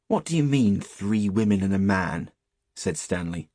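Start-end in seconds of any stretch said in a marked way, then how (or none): 0.1-2.3 put-on challenging boy. Stanley questioning the shepherd's tale, challenging. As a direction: question the old man's words rudely.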